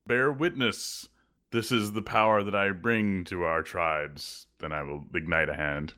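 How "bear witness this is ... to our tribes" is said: slow, declaimed show of power; measured ceremonial declaration; solemn proclamation. Acted. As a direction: proclaim it to the tribes, taking your time. Ceremonial display of power to giant.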